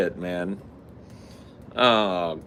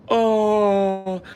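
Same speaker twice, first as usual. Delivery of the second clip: audience; 13 semitones higher, 6 dB louder than usual. Retold or imitated. Audience reacts.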